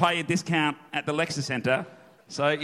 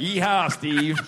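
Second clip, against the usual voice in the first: put-on American accent; 2 semitones higher, much slower than usual. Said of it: "in an American accent".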